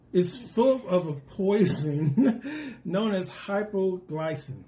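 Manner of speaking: slow, drawn-out reveal broken by a laugh. Real, not acted. Presenter revealing the fruit's poison to viewers, amused and laughing. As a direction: let a laugh slip out mid-sentence.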